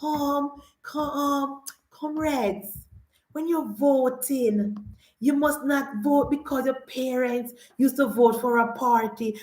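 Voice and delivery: lightly mocked, hesitant campaign speech; defeated politician. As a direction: imitate a politician losing heart, halting at first. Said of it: "You can hear it in his voice".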